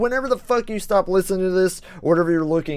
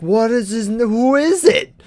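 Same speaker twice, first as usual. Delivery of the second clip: high, startled confused question; confused surprise; 6 semitones higher, 3 dB louder than usual. Retold or imitated. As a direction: blurt it out, caught off guard. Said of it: "I'm like".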